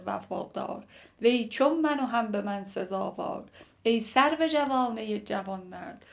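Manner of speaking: lightly declaimed poetry; poem recitation. Acted. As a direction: recite it line by line as classical verse. Recites the poem before explaining it.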